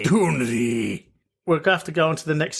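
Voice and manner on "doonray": Doonray, low and slow, Scottish accent. Shown as a demonstration. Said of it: "say it in a Scottish accent".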